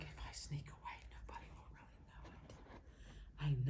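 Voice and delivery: hushed, secretive whisper; sneaky puppy whisper. Acted. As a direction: whisper it as a puppy slipping away unnoticed. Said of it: "It's like".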